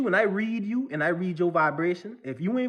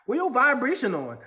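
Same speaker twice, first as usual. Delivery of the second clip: laughing quote; 4 semitones higher than usual. Retold or imitated. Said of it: "I heard somebody say".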